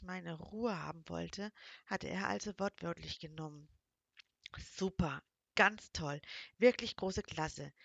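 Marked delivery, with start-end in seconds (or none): 4.8-7.7 slow, louder self-mocking sarcasm; sarcastic. Real, not acted. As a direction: drag out the mock praise at yourself. Narrator mocks herself sarcastically. (langsam und sarkastisch gegen sich selbst)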